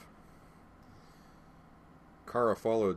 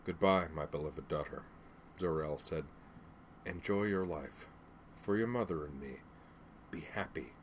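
tender farewell; 5 dB quieter than usual. Acted. Father's last farewell to daughter.

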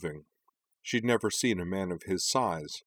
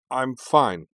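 higher, louder brush-off; insistent reassurance; 5 semitones higher, 7 dB louder than usual. A narrator's reading. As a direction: assure her firmly. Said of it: "he assured her".

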